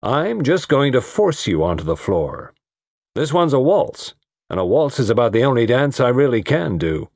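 hearty, weighty insistence; heavy. Acted. Guardian pushing his ward onto the dance floor, heavy insistence. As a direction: press it on her firmly, pitch lifted. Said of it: "Barton Russell spoke heavily".

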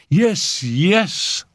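high, eager insistence; insistent. Acted. Raoul tries to rouse tired Simone, insistent. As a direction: press the point with enthusiasm. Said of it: "Raoul insisted".

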